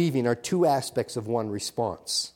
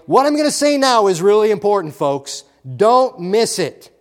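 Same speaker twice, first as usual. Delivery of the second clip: loud, raised emphatic warning; urgent alert; 4 semitones higher, 6 dB louder than usual. Acted. Preacher warns the congregation not to miss it, urgent alert. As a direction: sound the alarm, hard and deliberate. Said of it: "is the alert. Red flashing light".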